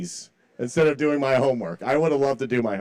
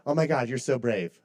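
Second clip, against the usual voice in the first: mock awe laughing; 4 dB quieter than usual. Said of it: "the teachers would be like".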